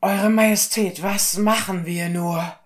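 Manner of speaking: high, loud, breathless-with-news messenger; panicked servant raising the alarm, high and loud; frantic alarm. Acted. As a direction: cry out terrible news to the king. Servant reports the robbery to the king.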